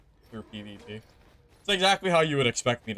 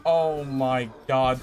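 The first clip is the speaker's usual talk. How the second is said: infuriated; slower than usual. Real, not acted. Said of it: "that is so infuriating".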